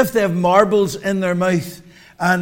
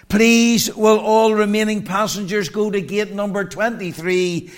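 flat echoey pa page. Retold or imitated. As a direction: announce it like a departure gate speaker. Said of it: "It goes like this".

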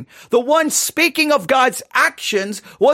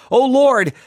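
dramatic scripture reading. Acted. Preacher reading Jeremiah's lament to the congregation, anguished. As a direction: read Jeremiah's lament like it's your own cry.

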